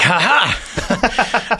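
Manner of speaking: retold "ha ha" burst of ridicule; imitated mocking laugh. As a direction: imitate a mother-in-law laughing it off. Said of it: "My mother-in-law's like".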